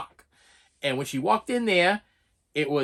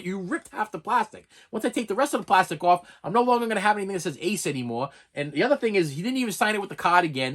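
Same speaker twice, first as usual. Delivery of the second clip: agitated, higher-pitched retold protest; all worked up; 3 semitones higher than usual. Customer protesting to the signer about the ripped plastic, worked up. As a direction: argue it out, getting worked up. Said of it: "like, all worked up".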